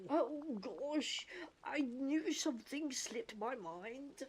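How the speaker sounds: slow, goofy cartoon voice. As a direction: put on a slow cartoon accent. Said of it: "goofy accent".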